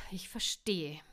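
breathy whispered huff; a whispered, huffing reply. A narrator's reading. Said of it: "schnaufte sie".

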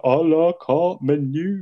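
a hammed-up old sailor savouring fancy words; imitating Albert. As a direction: drag it out like a doddery old uncle. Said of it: "he's like".

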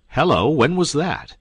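high and loud, seizing on the news; surprised. Acted. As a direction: pounce on it, suddenly alert. Duke pounces on a clue.

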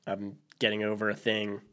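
stuffy nose from a cold; blocked nose, nasally. Real, not acted. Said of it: "So if I sound nasally".

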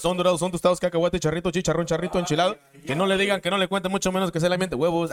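loud sing-song hawking of snacks; street vendor call. Retold or imitated. Kid vendor selling snacks at the bus stop, loud hawking call. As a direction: call out your wares to the crowd.

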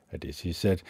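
normal talking voice

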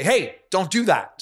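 stern, high, drawn-out scolding. Acted. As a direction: call a child off firmly. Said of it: "you should be able to raise your voice".

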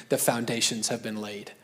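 a light hint of a Scottish accent, low and soft. Pastor quoting a visiting Scottish prophet, lightly Scottish accent. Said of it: "he just said in his Scottish accent".

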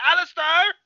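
high, loud mock call for a lost son; hammed-up searching cry, lifting at the end. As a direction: imitate a frantic father searching. Father calling for his lost son.

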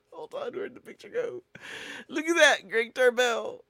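very high squeal of laughter; crying with laughter over the words; laughing. Real, not acted. Host can't hold it together over a photo, squealing laughter. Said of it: "I'm laughing at Greg Tarbell".

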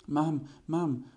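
excited calling from a distance; calling from afar. Acted. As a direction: shout it out across the bushes. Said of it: "wołał Puchatek z daleka".

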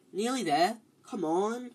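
urging the car on; willing the engine to hold out; cajoling. A narrator's reading. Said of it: "said Ron cajolingly".

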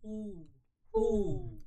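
owl hoot. Shown as a demonstration. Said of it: "그거를 두 번째 줄까지 할게요".

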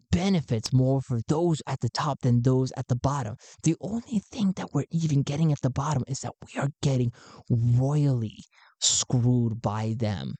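an excited recruiter greeting a new believer. Acted. Garn continues.

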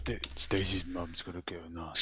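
Dangerfield voice. Pretend. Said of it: "Do the Dangerfield voice".

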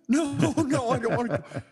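put-on very high, childlike pleading; mock protest. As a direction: plead comically not to be taken away. Protests being taken to airport.

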